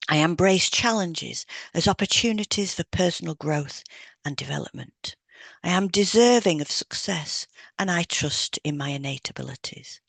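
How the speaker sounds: calm, steady affirmation read; spoken affirmations. Acted. Hypnotherapist voicing affirmations for the listener, calm and steady.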